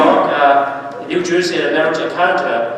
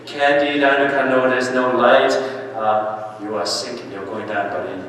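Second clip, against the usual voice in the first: evil one's voice; 4 semitones lower than usual. Acted. Preacher voices the evil one taunting a sinner, low taunting. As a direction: murmur like the enemy dragging him down.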